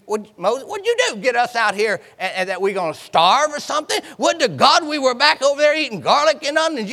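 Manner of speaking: whiny, fast griping at Moses; complaining. Acted. The Israelites griping at Moses about food, complaining fast. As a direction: grumble like a hungry crowd.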